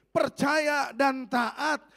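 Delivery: slow, loud rallying cry; shouted motto. Real, not acted. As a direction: shout it out for the congregation to take up.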